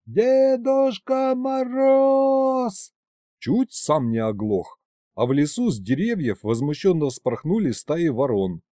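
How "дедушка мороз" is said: long, high drawn-out call; slow booming call for Grandfather Frost; yelling at the top of his lungs. A narrator's reading. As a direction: bellow it across the whole forest. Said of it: "И я заорал во всю глотку".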